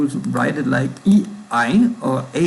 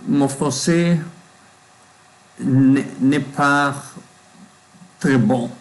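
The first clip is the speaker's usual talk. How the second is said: foreign accent in French. Real, not acted. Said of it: "not very good".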